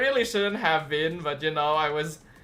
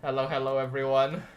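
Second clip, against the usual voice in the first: greeting through a yawn; 4 semitones lower, faster than usual. Real, not acted. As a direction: say it mid-yawn. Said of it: "you made me yawn".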